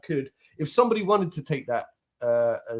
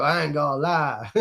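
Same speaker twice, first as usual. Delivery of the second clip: slow, light black American accent; American accent now. Shown as a demonstration. Showing his current American accent to his friend, slowly. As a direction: ease into a lazy American accent. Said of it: "That's my American accent now".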